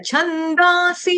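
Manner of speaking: high, slow छंदांसी with plain long 'daa', no 'u' glide; छंदांसी as chhandaa-si; wrong pronunciation. Shown as a demonstration. Teacher showing the mistake, slow mispronunciation. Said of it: "छंदांसी गलत उच्चारण है".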